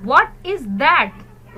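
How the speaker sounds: very slow, loud what is that; teacher drawing out each word; slow model reading. Shown as a demonstration. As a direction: spell it out slowly for the kids. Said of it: "Repeat after me".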